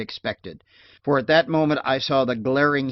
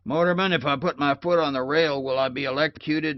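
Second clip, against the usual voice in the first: put-on old woman; 3 semitones higher than usual. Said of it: "Like the old woman, she says".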